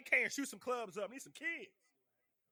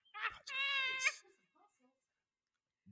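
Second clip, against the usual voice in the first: slow exaggerated repeat; much slower than usual. Repeated comic advice.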